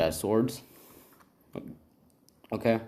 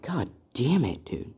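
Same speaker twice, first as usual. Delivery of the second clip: higher, louder acted exasperation; pissed-off cursing; 4 semitones higher, 4 dB louder than usual. Deku cursing over the score, acted pissed off. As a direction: curse it out in mock anger. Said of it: "Right, he's all pissed".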